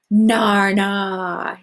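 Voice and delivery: put-on bright little toddler babble; happy toddler. A narrator's reading. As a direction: babble it like a delighted small child. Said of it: "he said happily".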